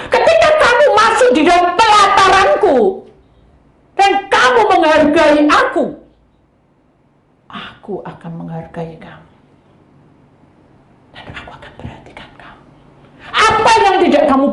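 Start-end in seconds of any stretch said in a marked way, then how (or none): 0.1-5.8 high, loud booming divine voice; voice of God. Acted. Preacher voicing God's promise to the congregation, loud and lifted. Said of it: "itu janji Tuhan loh". 7.5-12.6 breathy whisper of a tender promise; hushed promise. Acted. Preacher voicing God's promise, whispered. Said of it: "itu janji Tuhan loh".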